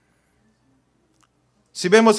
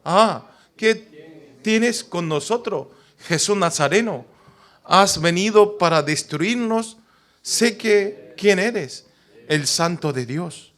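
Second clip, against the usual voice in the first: slow, drawn-out cry of a demon; lightly voiced possessed man; a hint of a demon's wail; unclean spirit crying out; slower than usual.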